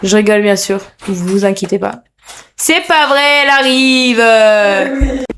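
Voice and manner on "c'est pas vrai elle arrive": higher, sudden excited outburst; thrilled cry at a friend's arrival. Real, not acted. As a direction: blurt it out as someone walks in. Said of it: "excusez-moi pour cette déferlante de cris".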